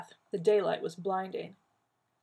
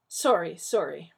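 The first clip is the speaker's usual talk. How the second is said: hurried; 7 dB louder than usual. A narrator's reading. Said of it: "Rodney said hurriedly".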